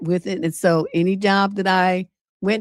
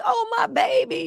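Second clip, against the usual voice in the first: doting dad. Retold or imitated.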